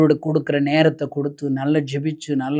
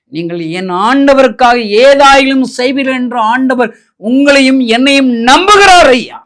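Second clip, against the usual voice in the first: higher and much louder, crying it out to the crowd; preaching shout; 6 semitones higher, 10 dB louder than usual. Real, not acted. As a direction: shout the promise like a revival climax. Preacher's climax quoting Mordecai. (பிரசங்க மேடையில் உரத்த குரலில் கூவுதல்)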